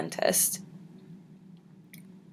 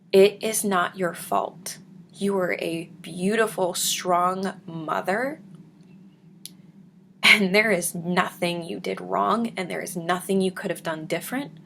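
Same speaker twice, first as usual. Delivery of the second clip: reassuring. Retold or imitated. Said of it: "she grabbed me".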